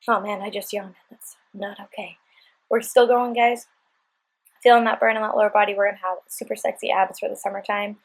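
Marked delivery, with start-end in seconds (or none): none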